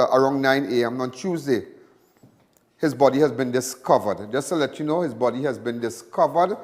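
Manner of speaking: steady news bulletin delivery; news read. Acted. Reads news bulletin on air.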